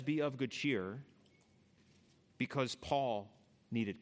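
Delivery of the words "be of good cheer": soft, slow be of good cheer; gentle comfort. Retold or imitated. Jesus to frightened Paul, soft and slow. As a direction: ease him gently. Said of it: "He says".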